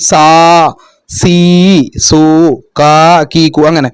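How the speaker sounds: drawn-out vowel sounds demonstrated; long vowels. Shown as a demonstration. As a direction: hold each vowel long, സാ സീ സു. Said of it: "ദീർഘശബ്ദമാകുമ്പോ എന്താ പറയും".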